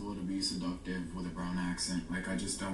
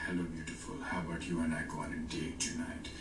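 put-on low, smooth South Asian accent; seductive brown accent; 4 semitones lower than usual. Asking someone on a date, creepily seductive brown accent. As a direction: brown accent played seductive, pitch dropped. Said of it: "if I do it with a seductive accent".

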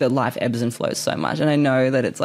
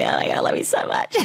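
breathless, laughing lower voice; laughing gratitude; 12 semitones lower, faster than usual. Retold or imitated. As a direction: gush thanks through a laugh. Thanking boss, laughing.

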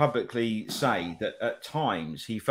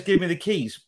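mock English-accented demand, higher pitch; 5 semitones higher than usual. Co-host mocking the actress's line in an English accent. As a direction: mimic her failed Russian accent, very English. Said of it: "That's about as English accent as".

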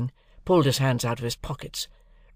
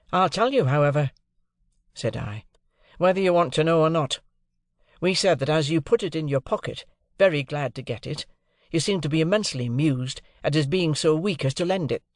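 defiant; 4 semitones higher than usual. Acted. Pip confronting Drummle.

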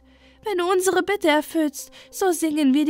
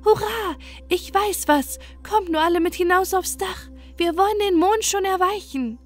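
very high, louder eager bird; excited hurrah; 10 semitones higher, 3 dB louder than usual. Acted. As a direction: burst out with the idea. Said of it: "bis endlich der Kibitz rief". (sehr hoher, begeisterter Kiebitz)

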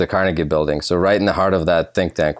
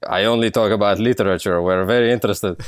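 Russian accent put on lightly for a phone call; lightly faked thick Russian accent, playing a visitor from Russia; fake Russian accent. A journalist fakes a Russian accent for Vonnegut's PR person, lightly. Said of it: "this super fake Russian accent".

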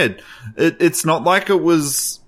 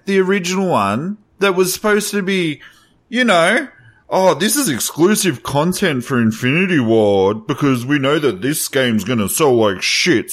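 worked-up rant, pitched high; 4 semitones higher than usual. Real, not acted. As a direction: rage about the game. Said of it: "Are you gonna let me rage?".

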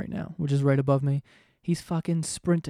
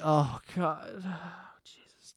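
annoyed sigh; 6 dB quieter, much slower than usual. Retold or imitated. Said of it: "They're like".

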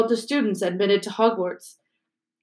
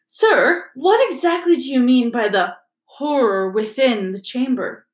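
put-on higher, eager young girl voice; a keen pupil's raised-hand question; eager schoolgirl; 3 semitones higher, 3 dB louder than usual. Hermione asks eagerly.

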